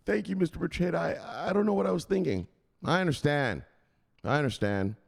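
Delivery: high, relieved thanks; a scolded man apologizing; sheepish investor. Acted. Investor thanking the enforcer, high and sheepish.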